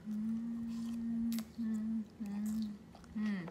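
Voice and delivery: humming while chewing food; muffled by mouthful of food; mouth full, chewing. Real, not acted. Seen 3: Bites seaweed from chopsticks at 0.1, chews with full mouth throughout.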